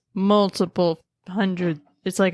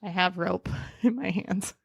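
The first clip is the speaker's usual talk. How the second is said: whispering; 5 dB quieter than usual. Real, not acted. Whispered aside.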